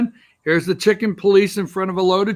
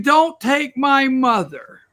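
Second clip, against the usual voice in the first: mock crying girl; 6 semitones higher, slower than usual. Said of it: "one little girl that's crying".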